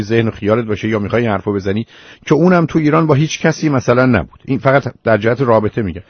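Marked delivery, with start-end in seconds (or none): 2.3-6.0 higher and louder, pressing hard; heated insistence. Real, not acted. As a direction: demand an answer, voice rising. Host presses caller for explanation.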